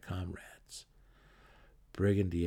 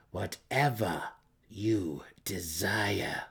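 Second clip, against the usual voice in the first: desperate whispered promise; much slower than usual. Acted. Malice bargaining with the mercenary in a desperate whisper. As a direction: promise anything, breathlessly. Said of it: "the desperate matron mother promised".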